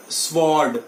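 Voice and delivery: "स्वॉर्ड" as SVORD; wrong sword. Shown as a demonstration. Teacher repeats what people say, w sounded. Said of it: "Sword is wrong".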